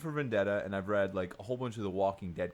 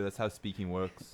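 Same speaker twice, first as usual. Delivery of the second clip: put-on Scottish accent; slower than usual. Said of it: "Fine, I'll do Scottish".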